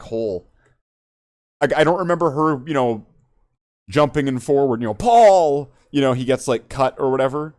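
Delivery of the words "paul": yelling a name. Retold or imitated. Calling out in the fight.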